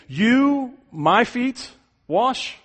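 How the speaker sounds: high, disbelieving, word by word; incredulous Peter. Retold or imitated. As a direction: spell out his shock one word at a time. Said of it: "It's as if he's saying".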